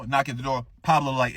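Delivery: ordinary delivery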